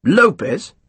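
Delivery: surprised query of a name; trying to place the name Lopez; puzzled. Acted. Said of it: "trying to remember".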